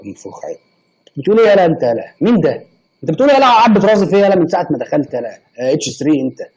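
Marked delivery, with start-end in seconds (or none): 1.2-5.3 mock angry.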